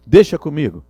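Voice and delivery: loud and sure. Shown as a demonstration. Teacher showing a loud, sure "Deixa comigo". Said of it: "não é só falar assim".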